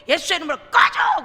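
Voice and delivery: loud, furious command to go away; angry shout casting out a demon; angry rebuke. Retold or imitated. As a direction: drive the devil out with a shout. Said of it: "저도 모르게요".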